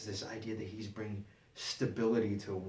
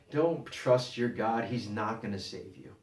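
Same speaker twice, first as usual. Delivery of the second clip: loud, slow opening, then easing off; imitated taunt; 4 dB louder, slower than usual. Enemy general to the men on the wall, mock taunting. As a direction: mildly taunt them like an enemy envoy.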